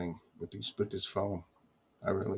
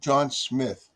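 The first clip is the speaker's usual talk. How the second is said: higher, lightly imitated Pakistani-accented caller; hint of a put-on Pakistani accent; 4 semitones higher than usual. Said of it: "with a Pakistani accent".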